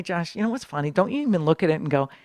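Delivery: ordinary talk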